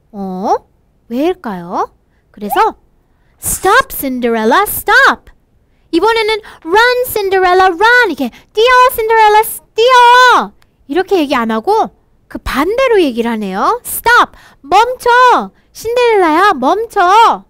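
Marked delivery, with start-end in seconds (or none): 3.4-5.3 calling stop. Acted. Prince calls after Cinderella. 6.6-8.1 slow call, then loud run; higher loud run call; urgent call. Acted. Acted call to flee. 8.5-10.5 higher, louder shout to run; shouted urgent run; urgent call. Acted. Acted call to flee. 13.8-17.4 higher, louder call to stop; shouted plea to stop. Acted. Prince calling after her.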